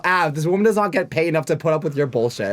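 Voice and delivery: a mock telling-off, half shouted through laughter; laughing scold. Telling off Av at dinner, laughing and half shouting.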